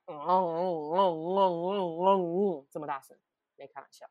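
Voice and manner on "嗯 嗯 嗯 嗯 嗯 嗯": mock booming hum. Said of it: "很像整个那个空间里就在那边".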